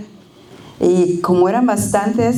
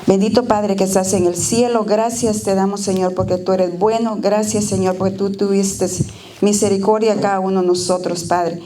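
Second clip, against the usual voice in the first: steady, devout prayer voice; earnest prayer. Acted. Speaker leads the congregation in prayer, devout and earnest. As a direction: pray aloud to the Father, reverent.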